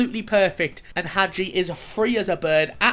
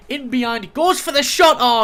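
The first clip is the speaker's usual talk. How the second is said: excited play-by-play; 6 semitones higher, 8 dB louder than usual. Real, not acted. Gamer calling his striker's shot, excited. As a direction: voice jumps high and loud on the shot.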